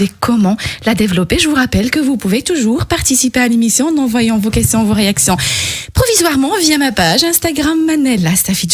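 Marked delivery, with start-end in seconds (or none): 1.4-8.7 slightly winded after exercise; talking while catching her breath. Real, not acted. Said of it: "Je suis essoufflée". (essoufflée)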